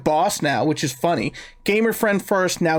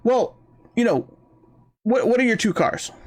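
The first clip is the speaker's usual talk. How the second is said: operator voice; 4 semitones higher than usual. Retold or imitated. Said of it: "And she goes".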